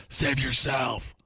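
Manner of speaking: drawn-out melodramatic call to flee; mock heroic warning. Acts out the mom's dying warning.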